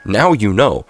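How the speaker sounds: talking around a cough drop; mouth full. Real, not acted. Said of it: "I had a cough drop in my mouth".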